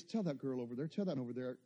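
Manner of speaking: low, soft voice of God; the Lord quietly urging him at Walgreens; the Lord's gentle voice. Retold or imitated. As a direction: murmur it tenderly. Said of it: "The Lord says".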